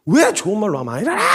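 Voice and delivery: mock angry mom yelling at a late riser; irritated mom shout. Preacher mimics angry mother waking her child, shouting. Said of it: "이러면서 막 신경질, 짜증을 엄청 내세요".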